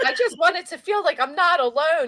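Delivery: high, loud whiny imitation; hammed-up self-pity, pitched high; mock plaintive complaint. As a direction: mimic her complaint with laughter creeping in. Mocking the woman's plaintive complaint.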